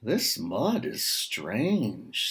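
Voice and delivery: slow, wondering pig; drawn out in mild puzzlement; a lightly voiced surprised pig; puzzled pig. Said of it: "sort of a surprised expression".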